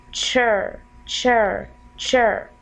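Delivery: "chur" repeated slowly on its own; "chur", drawn out with a long r; separated second syllable. Shown as a demonstration. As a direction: say each "chur" as a detached, falling syllable. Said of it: "divide it for two syllable".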